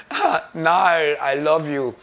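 put-on affected, drawn-out diva accent; slow, affected accent of an eccentric star; imitating a singer. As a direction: put on an odd, theatrical invented accent. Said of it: "when she speaks, she goes".

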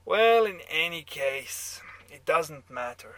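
put-on loud, dismissive German-accented aside. A narrator's reading. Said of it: "your German accent".

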